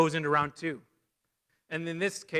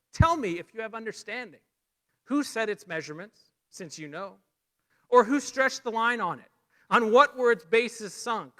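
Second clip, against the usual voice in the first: raised, louder voice of God demanding answers; a commanding divine voice, pitched up and pressing; God's challenge; 6 semitones higher, 3 dB louder than usual. Acted. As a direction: thunder down the questions on Job. Preacher voicing God's questions to Job.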